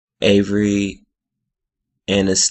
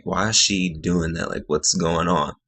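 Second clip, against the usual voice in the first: puzzled quiet aside; 8 dB quieter than usual. Retold or imitated. Retold puzzled inner question.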